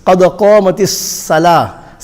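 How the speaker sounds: thin s in الصَّلَاةِ; seen for sad. Shown as a demonstration. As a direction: say الصَّلَاةِ with a light, empty-mouth "salah". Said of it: "common mistake".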